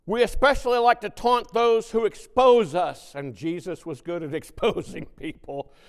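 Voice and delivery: preaching at full force. Acted. Preacher warning congregation about mockery, loud. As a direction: drive the point home.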